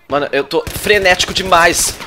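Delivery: ordinary talk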